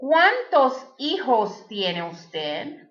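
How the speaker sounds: slow, careful Spanish with a rising end; slow teacher's model question in Spanish. Shown as a demonstration. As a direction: say it slowly so learners can copy. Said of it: "Next question".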